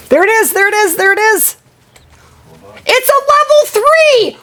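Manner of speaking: high, thrilled rapid calling; excited. Real, not acted. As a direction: point it out, barely containing yourself. Spots the fleeing rare animal.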